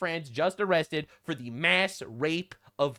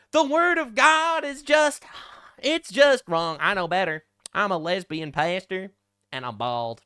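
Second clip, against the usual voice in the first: mocking the pastor.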